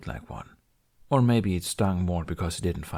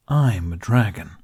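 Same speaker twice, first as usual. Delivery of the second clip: slow, louder, "dragon" leaned on hard; stressed; 6 dB louder than usual. A narrator's reading. Dragon insisting to Hiccup, slow and emphatic. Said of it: "Toothless stressed".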